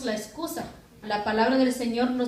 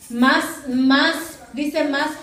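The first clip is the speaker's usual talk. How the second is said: louder insistent preaching; 5 dB louder, much slower than usual. Real, not acted. Preacher urging drawing nearer.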